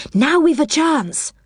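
high, bright and pleased at the chance. A narrator's reading. Silky pleased the Sandman is asleep, pleased high voice.

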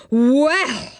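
mock cross "Well", drawn out and falling; a hint of rising anger on "Well"; temper rising. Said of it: "his temper rising".

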